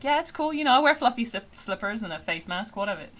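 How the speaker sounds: breezy cartoon character, starting high and loud; Lance. Streamer imitating a show character's unbothered attitude, lightly voiced. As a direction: toss it off casually, settling back down. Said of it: "He's just like".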